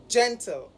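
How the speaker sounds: "gentle" with GEN pitched above -tle; first-syllable stress. Shown as a demonstration. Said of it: "should be higher in pitch".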